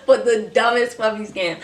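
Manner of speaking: laughing. Real, not acted. Laughing at own gullibility.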